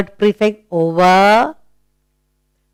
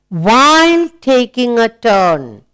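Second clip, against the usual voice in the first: slow and deliberate, word by word; slow read-aloud; 3 semitones higher than usual. Shown as a demonstration. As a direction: read it out slowly for the class. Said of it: "Let's read aloud".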